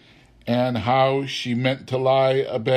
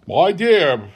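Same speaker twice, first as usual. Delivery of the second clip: higher, louder gentle check; Bob remonstrating; 7 semitones higher, 6 dB louder than usual. A narrator's reading. Bob checks his angry wife, remonstrating. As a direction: rein her in. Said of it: "said Bob".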